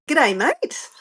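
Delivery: mock ocker Australian greeting; put-on Australian accent. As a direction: ham up the Australian twang on the greeting. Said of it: "I'm just bunging on that accent then".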